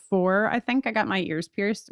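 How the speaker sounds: ordinary talk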